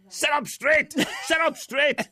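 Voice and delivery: high, loud barked command; shouted order. Retold or imitated. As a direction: shout it at him through the earpiece. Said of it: "he would shout at you".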